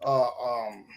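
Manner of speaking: blanking on a name, slow and halting; stalling while the name won't come; brain freeze. Real, not acted. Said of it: "damn, I got a brain freeze again".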